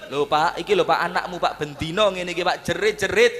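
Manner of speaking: mock whining to the father-in-law; a husband tattling on his wife, hammed up; whiny complaint. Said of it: "kira-kira tambah nemen". (mengadu dengan nada merengek)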